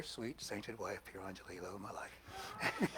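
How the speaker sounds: quiet chuckle through the words; laughing softly. Real, not acted. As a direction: laugh as you praise her. Teasing praise of his wife.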